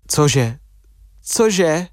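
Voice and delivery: understated incredulous double take; uncomprehending reaction. A narrator's reading. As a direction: ask it twice in rising disbelief. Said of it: "nechápavě reagoval".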